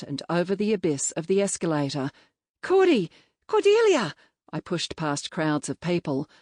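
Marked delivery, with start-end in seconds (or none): 2.6-4.1 yelling. A narrator's reading. Chasing her through crowds.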